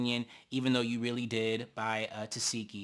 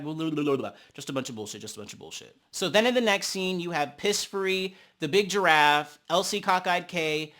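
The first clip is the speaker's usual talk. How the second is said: ordinary delivery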